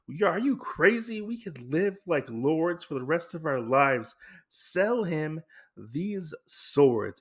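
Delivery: retold sibling fight, brother raising his voice; angry brother. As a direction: push her to sell, exasperated. Brother and sister quarrel over swords.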